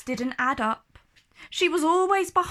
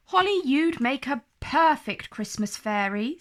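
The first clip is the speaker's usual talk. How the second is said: encouraging. Acted. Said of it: "said Felicity encouragingly".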